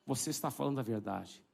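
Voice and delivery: slow, low-pitched order, firmly weighted; low restrained command. Retold or imitated. Preacher ordering the demon out, low, slow and firm. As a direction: command slowly in a low register. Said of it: "Falei baixinho assim".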